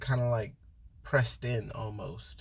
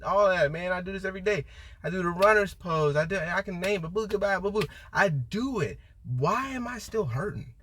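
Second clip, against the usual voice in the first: higher, frustrated complaint, mock pleading; exasperated retold plea; 6 semitones higher than usual. Asking her yoga instructor why she still hurts, exasperated high plea. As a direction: list the poses like you're fed up. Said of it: "I remember asking this one yoga instructor".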